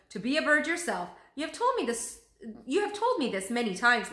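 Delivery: tired of hearing this tale again; mock exasperated parrot voice. Marco teasing, impatient parrot.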